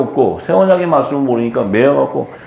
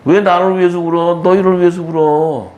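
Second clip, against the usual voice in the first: raised-pitch rebuke to the weepers; Jesus; 4 semitones higher than usual. Acted. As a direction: admonish them insistently, pitched up. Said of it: "예수님이 지금도". (높은 목소리로 꾸짖는 말투)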